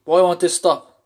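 begging for the panic to end; desperate plea. Retold or imitated. Reliving his first panic attack, a panicked desperate plea.

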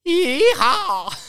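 high, far-carrying Southern cowboy whoop; playful Southern holler; Southern yeehaw. Pretend. Answers the Southern accent with whoop.

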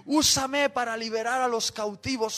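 imitating an eager young volunteer praying; fervent plea. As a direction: plead with God in a rising list of requests. Acts out his fervent youthful prayer.

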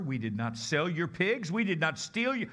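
pleading protest. Acted. Swineherd denying theft to the owner, rising protest. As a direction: build from defensive to loud insistence.

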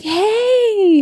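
put-on high, bright kid's hello; little girl voice. Five-year-old calling her aunt, high kid voice. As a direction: chirp it like a small child. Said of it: "And she's like".

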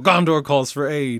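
loud playful call to arms; hammed-up herald's call; mock heroic proclamation. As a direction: proclaim it like an epic summons.

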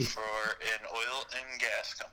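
phone speaker. Real, not acted. Caller on speakerphone.

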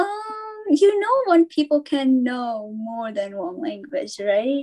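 slow, pointed mock explanation; condescending. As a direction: spell it out as if to someone clueless. Sarcastic reply to surprised people.

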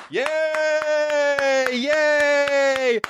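very high, drawn-out falsetto squeal; hammed-up sarcastic glee; mock cheering. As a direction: squeal it long and high in fake delight. Mock delight at opener's news.

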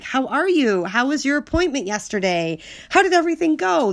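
energetic, caring interest. Shown as a demonstration. Showing how they normally check in on someone they care about, energetic and interested. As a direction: ask with lively, caring interest. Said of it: "in the energetic way that I normally do".

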